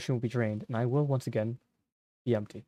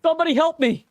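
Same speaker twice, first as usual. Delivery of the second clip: high, loud, rasping scream for help; desperate raspy scream from the bathroom floor; raspy cry for help; 8 dB louder than usual. Acted. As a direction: tear it out of a ruined throat. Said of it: "raspy and unfamiliar".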